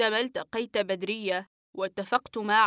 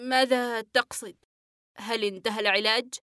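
puzzled, catching his breath; patient surprised the treatment may be over; astonished. Acted. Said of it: "ونظر إلي في دهشة".

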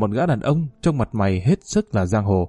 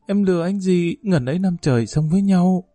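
higher, hurt accusation; upset reproach; 4 semitones higher than usual. Acted. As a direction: pour out the grievance at him. Thu accuses him in anger. (người tình bị bỏ rơi trách móc tủi thân, giọng cao hơn)

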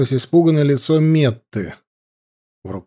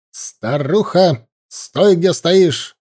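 sharp shout; 4 semitones higher, much slower than usual. Acted. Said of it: "раздался резкий окрик".

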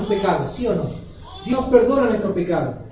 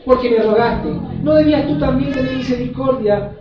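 angry master; 2 semitones higher, 3 dB louder than usual. Acted.

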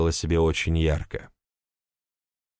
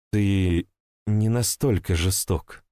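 unsure breaking voice; slower than usual. Acted. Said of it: "крайне неуверенным, срывающимся голосом".

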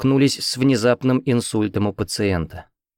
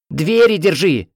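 much higher, louder, slow barked command; shouted order; 9 semitones higher, 5 dB louder, slower than usual. A narrator's reading. Head nurse ordering Lena to hold the doors: slow shouted order. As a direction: yell the order across the room.

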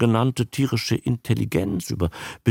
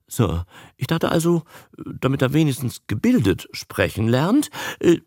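higher, halting justification; flustered excuses; 5 semitones higher than usual. Acted. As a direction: stumble nervously through your excuse. Caught employee stammers out excuses.

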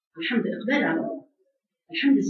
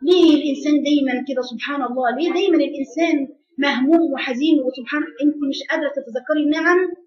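ordinary talk

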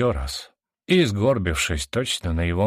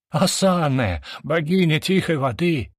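high-pitched cry of shock; shocked exclamation; 8 semitones higher than usual. A narrator's reading. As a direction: exclaim it, shaken, voice raised high. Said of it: "потрясённо воскликнул Сайроон". (потрясённое восклицание высоким голосом)

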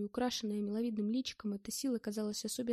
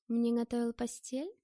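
«Мне» pushed a little louder, the rest lighter; stress on first word; 4 dB louder than usual. Acted. Girl questioning whose bed he made, stress on «Мне». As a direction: lean on «Мне» as the question's point. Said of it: "делая ударение на первом слове".

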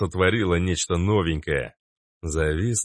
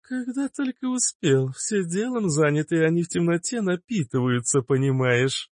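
put-on teasing girl; 10 semitones higher than usual. A narrator's reading. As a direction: tease the healer. Liana teasing, high voice. (Лиана дразнит знахаря)

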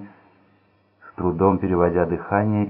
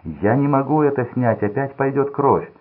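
higher, louder frightened plea; panicked plea; 7 semitones higher, 4 dB louder than usual. A narrator's reading. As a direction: beg not to tear it off. Roy panicking over bandage.

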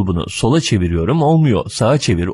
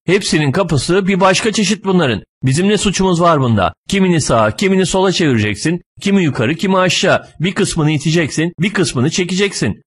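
higher-pitched, indignant self-defence; fed-up protest; 6 semitones higher than usual. Acted. Passenger finally answers back to the driver, fed-up protest. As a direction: protest as patience runs out. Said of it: "bu kadarına dayanamam artık".

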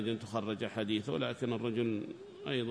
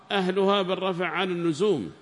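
formal reading; 5 semitones higher, 7 dB louder than usual. Acted. Student reads the rule aloud to the sheikh, raised. Read aloud, then repeated.

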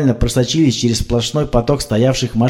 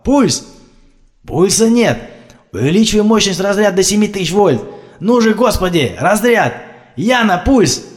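desperate shouting; 9 semitones higher than usual. A narrator's reading. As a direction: beg for a heartbeat, shouting. Desperate resuscitation.

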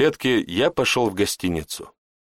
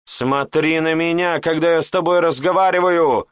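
yelling; 7 semitones higher, 3 dB louder than usual. Acted. Master roars at the apprentice to look at him. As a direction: roar the order at him. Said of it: "заорал Жбаш".

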